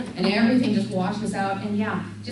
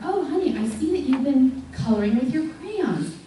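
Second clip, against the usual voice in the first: mock therapist mom; 4 semitones higher than usual. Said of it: "I say to her".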